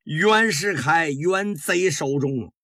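acted tearful begging, drawn out slowly in places; mildly tearful plea. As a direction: beg the empress with a touch of a sob, dropping away on the repeat. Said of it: "带着哭腔".

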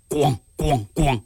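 three slow, heavy bangs voiced; knock-knock sound made with the mouth; imitated door banging. Storyteller mimics urgent pounding on the door, imitated banging.

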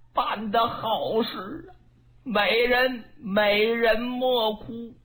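slow, soothing appeasement; drawn-out pleading to calm her; coaxing. Acted. Dong Zhuo coaxes the weeping Diaochan, slow and soothing. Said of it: "越哄".

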